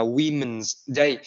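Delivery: "Women's Day" said slowly, word by word; careful pronunciation model. Shown as a demonstration. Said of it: "nó sẽ phát âm là".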